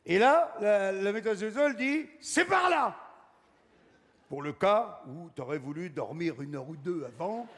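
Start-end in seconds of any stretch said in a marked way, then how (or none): 2.2-3.0 much higher hostess pointing the way; chirpy hostess. Retold or imitated. Hostess directing guests to the kitchen, higher chirpy call. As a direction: sing it out like a cheery host.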